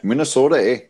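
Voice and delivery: lightly put-on Canadian accent; Canadian "eh" played for a joke; mock Canadian accent. Answering a jab about Minnesota, mock Canadian accent. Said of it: "That's my Canadian accent".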